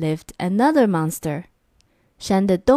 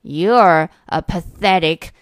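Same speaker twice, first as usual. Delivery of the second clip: shouted insults; 4 dB louder than usual. Acted. Monsters trading insults.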